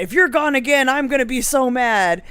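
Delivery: mock scolding from a mad old man; retold very mad. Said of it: "he was very mad".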